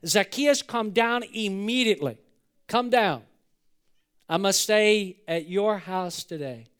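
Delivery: lightly acted summons, slowing at the end; Jesus. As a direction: call someone down, firm and deliberate. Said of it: "he looked up and said to him".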